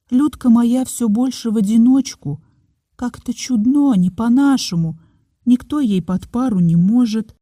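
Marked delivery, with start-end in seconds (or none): none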